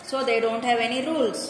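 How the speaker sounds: normal talking voice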